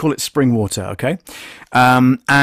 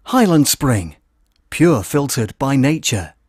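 Scottish accent; slower than usual. Shown as a demonstration. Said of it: "Start again".

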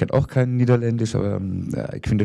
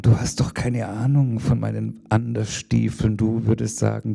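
measured, rhythmic poetry recital; poem reading. Acted. Reads her poem aloud.

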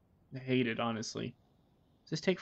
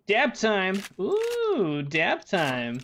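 excited; 5 semitones higher, 6 dB louder, much slower than usual. Real, not acted. Excited about dabbing.

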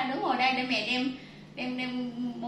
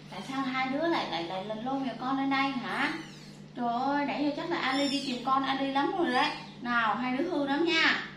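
raised, scolding voice; scolding mother. Real, not acted. Mother scolding the kids for taking the kitten, firm and raised.

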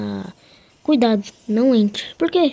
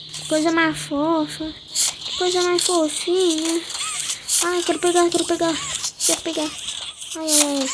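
cooing; 4 semitones higher than usual. Real, not acted. Cooing over a cute toy.

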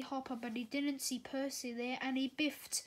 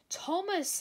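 huffing; 5 semitones higher, 4 dB louder than usual. A narrator's reading. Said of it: "huffed Billy".

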